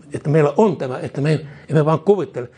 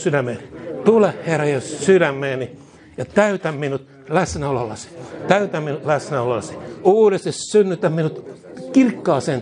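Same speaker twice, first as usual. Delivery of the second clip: line by line, each phrase given out to repeat; preacher leading the congregation in prayer, fervent; 2 semitones higher than usual. Acted. Preacher prays aloud for the church to echo, earnest call-and-response.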